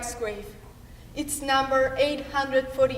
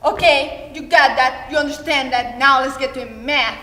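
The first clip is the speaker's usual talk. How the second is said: mother's voice; 5 dB louder, faster than usual. Acted. Mother pressing child through lessons.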